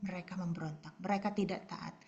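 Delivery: ordinary talk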